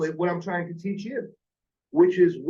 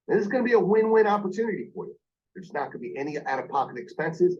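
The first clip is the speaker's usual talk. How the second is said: quick, upbeat pitch with energy; lively phone-sales delivery; enthusiastic sales pitch; 4 semitones lower than usual. Shown as a demonstration. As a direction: sell it like you believe it. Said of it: "That's a whole lot different".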